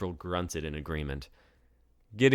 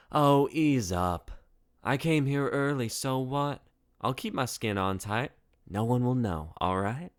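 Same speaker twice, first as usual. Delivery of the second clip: swaggering Deidre; 7 semitones higher, 5 dB louder than usual. Acted. Deidre brushing off April's worries, brash and teasing. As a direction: shrug off the rules with a cocky grin.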